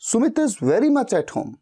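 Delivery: "very" hit hard, whole line slow; stress on very much. Shown as a demonstration. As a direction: press on "very" to insist he's there. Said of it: "ज्यादा जोर देके बोल रहे हैं".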